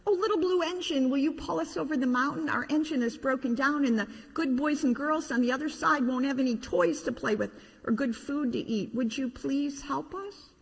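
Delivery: high, earnest pleading voice; pleading toys. Acted. Toys pleading with the little blue engine, high earnest plea. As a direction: beg the little engine sweetly.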